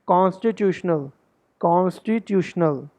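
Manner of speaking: कॉन्स्टिट्यूशनल ending in a short -CHOO-shnul; correct constitutional pronunciation. Shown as a demonstration. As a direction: say कॉन्स्टिट्यूशनल compactly, without stretching the ending. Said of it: "तो इसको कॉन्स्टिट्यूशनल बोलना है". (कॉन्स्टिट्यूशनल का अंत छोटा, '-ट्यूश्नल' बोलें)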